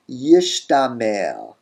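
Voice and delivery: yishtamer with sh before t, yish-tamer; metathesized form. Shown as a demonstration. Teacher showing what we get, yishtamer. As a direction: say yishtamer, sibilant first. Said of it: "what we get is".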